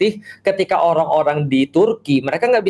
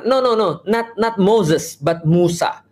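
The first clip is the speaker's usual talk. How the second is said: higher, slow, fussy "not, not Moses"; mock insistent correction; 4 semitones higher, slower than usual. Imagined pedant correcting an English speaker, mock insistent. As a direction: play a pedant who won't accept Moses.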